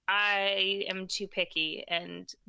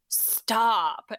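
imitated talking down to a child; drawn-out, condescending one-word command; super condescending; 4 dB louder than usual. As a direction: imitate a partner scolding like a child. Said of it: "in this, like, super condescending, terrible way".

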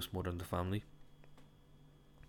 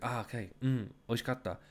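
slightly raised, restrained compliment; unconvincing praise; 4 semitones higher than usual. Retold or imitated. Guest asked to repeat his praise of the meal, restrained. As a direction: praise the meal without much conviction. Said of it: "say it like you mean it".

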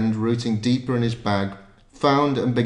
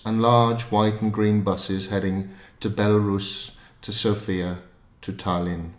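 calm, measured novel reading; story narration. A narrator's reading. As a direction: read it like an audiobook.

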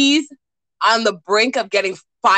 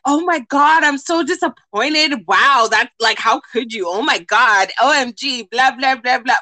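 mock disappointed. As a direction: gush fake disappointment. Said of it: "everybody on her Facebook is like".

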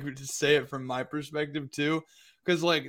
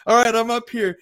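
high yelps of pain climbing; ow-ing over a sore foot; 7 semitones higher, 5 dB louder than usual. Retold or imitated. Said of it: "and I'm like".

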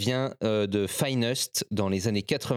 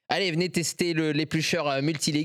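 mock fairground pitch, a bit higher; market barker; 4 semitones higher than usual. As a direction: hawk it like a market seller. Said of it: "les bonimenteurs".

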